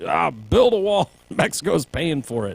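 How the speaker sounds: lampoon Trump's wall promise; a light Trump impression; mock Trump.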